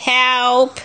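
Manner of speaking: drawn-out storybook cry for help; half-hearted shout for help; mock shouted help. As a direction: stretch the word like a mild call. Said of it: "shouted Zog".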